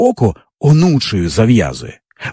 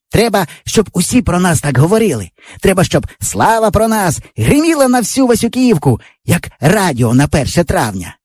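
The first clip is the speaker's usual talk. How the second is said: put-on raised, rousing boyish voice; dreamy boast; 6 semitones higher than usual. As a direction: proclaim your big plan. Yava dreaming of fame. (мрійливо-запальний хлопчачий голос)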